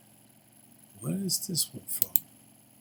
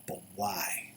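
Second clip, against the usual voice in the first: whispering; 4 semitones lower, 6 dB quieter than usual. Real, not acted. Puzzled aside while debugging.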